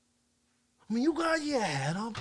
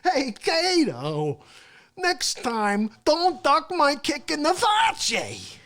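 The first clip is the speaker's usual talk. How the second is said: scolding Kato; 5 semitones higher, 4 dB louder than usual. Acted. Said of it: "the guy I'm yelling at".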